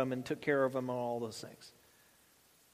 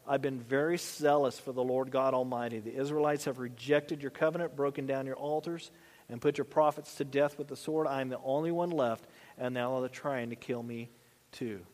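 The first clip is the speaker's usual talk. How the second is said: lower, softer, deflated recital; mopey repeated complaint; 4 semitones lower, 4 dB quieter than usual. Acted. Elijah repeating his speech to God, low and mopey. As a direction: recite the same gripe, worn down and sunk. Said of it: "like the tape in the mind".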